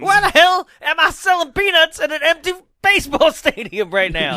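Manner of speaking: high, loud exasperated vendor; stadium vendor hawking. Pretend. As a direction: vendor yelling at the empty park. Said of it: "Peanut Man".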